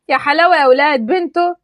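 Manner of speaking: mock her trouble; sarcastic wow. Taha repeats sarcastically.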